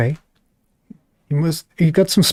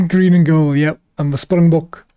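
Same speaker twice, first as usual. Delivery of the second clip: lightly put-on South African accent; South African accent, done with some confidence; 3 dB louder than usual. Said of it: "that is one accent that I can do a little bit".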